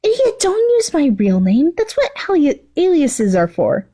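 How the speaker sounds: an irritated villainess yells at Toga; yelled. Acted. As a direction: snap at her careless friend. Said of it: "glared at Toga and yelled".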